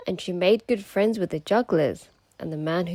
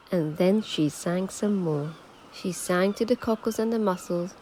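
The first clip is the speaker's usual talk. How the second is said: gentle storybook narration; reading to children. A narrator's reading. Narrator telling children a mermaid tale, gentle storybook read. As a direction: read it like a bedtime picture book.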